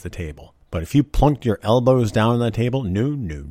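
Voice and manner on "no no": ordinary talk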